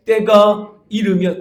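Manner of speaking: 때가 이르면 loud, high and very slow; stress 때가 이르면. Shown as a demonstration. Pastor underlining 때가 이르면 for the church, slow and loud. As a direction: hammer 때가 이르면 slowly. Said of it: "거기 밑줄을 쳐야 돼요".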